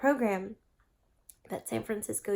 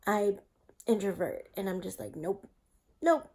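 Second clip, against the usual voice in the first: on a bumpy road. Real, not acted. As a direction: voice jolted by shaking. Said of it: "Sorry for the shaking".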